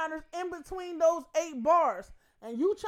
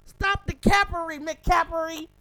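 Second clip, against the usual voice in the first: loud; 3 semitones higher, 6 dB louder than usual. Real, not acted. Mocking callout.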